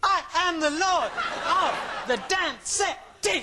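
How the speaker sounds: slow, clipped, punched syllables; staccato. Acted. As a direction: bark each word out separately. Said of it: "Saying it in a staccato fashion while dancing around".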